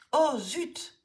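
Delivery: sudden high "oh, zut!" of dismay; a child groaning as the ball flies off; dismayed exclamation. Acted. Child sees ball fly over the hedge, dismayed exclamation.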